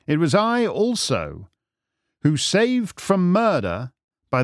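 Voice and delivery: measured, theatrical revelation; stately detective reveal; proud, composed Holmes. Acted. Holmes reveals his past deeds.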